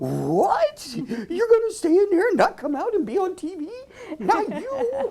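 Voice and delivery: very high, bouncy, swooping cartoon dog voice. Talking to a shy puppy in a carrier: Scooby-Doo voice. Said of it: "you talk to him in a Scooby-Doo voice".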